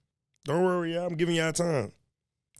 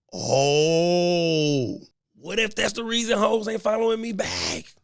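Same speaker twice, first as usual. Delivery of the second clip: mock crying; 5 semitones higher, 5 dB louder, much slower than usual. Mock lament about unfollowing ladies.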